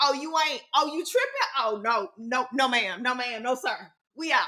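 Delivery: ordinary delivery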